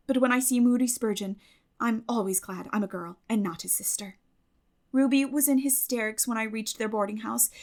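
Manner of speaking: lightly voiced eager girl reading her letter; bright girlish letter-writer, a touch lively; Anne's letter voice. Anne's letter read as Anne.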